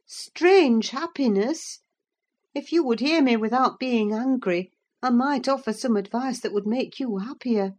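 worried servant offering advice; anxious Nelly. Acted. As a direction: coax him cautiously. Nelly answers, agitated.

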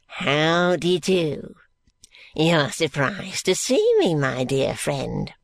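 put-on slow, gasping, wheezing old man; a decrepit old miser catching his breath. Grandfather Smallweed greeting George, slow and gasping.

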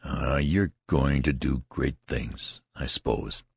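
slow, low, bitter sarcasm; a mildly bitter jab at a boastful comrade. Acted. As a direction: let the scorn drip out slowly. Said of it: "his voice was as bitter as dregs".

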